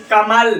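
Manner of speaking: कमल with weight on both क and म; stress on क and म. Shown as a demonstration. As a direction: lean on the क and म in कमल. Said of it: "क और म पर ज्यादा जो बल दे रहे हैं".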